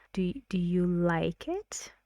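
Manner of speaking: "you" lifted, ending in a question rise; stress on you. Shown as a demonstration. Teacher asks partner B, stressing you. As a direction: ask "you" with weight on it. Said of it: "these are the stressed syllables".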